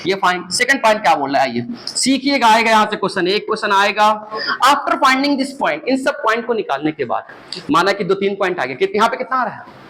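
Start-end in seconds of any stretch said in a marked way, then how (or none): 4.7-5.9 slow read-aloud. Shown as a demonstration. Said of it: "reading the slide slowly".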